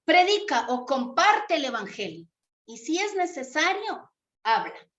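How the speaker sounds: saying quoted with weight on predica; quoting a saying. Shown as a demonstration. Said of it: "dice así el dicho".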